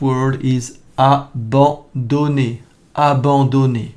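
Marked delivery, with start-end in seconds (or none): 1.0-2.6 abandonner said the French way, nasal an, stress on the last syllable; French pronunciation. Shown as a demonstration. Teacher models abandonner for learners, crisp French vowels. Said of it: "Please hear the words and repeat after me". 2.9-3.9 Abandonner with nasal an and a falling final né; French pronunciation. Shown as a demonstration. Teacher repeats Abandonner for students, careful French. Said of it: "Please hear the words and repeat after me".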